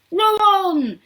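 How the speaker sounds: high, loud, long command; shouted order. A narrator's reading. Mister Wonka cutting Mike off to urge rowers, shouted. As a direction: bellow to the crew. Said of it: "shouted Mister Wonka".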